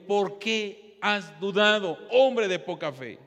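slow, weighted question quoting Jesus; retold reproof.

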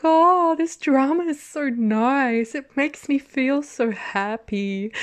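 dreamy delight. Retold or imitated. Recalling watching early episodes, slow happy gushing. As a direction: swoon over a sweet show. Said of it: "I was just like".

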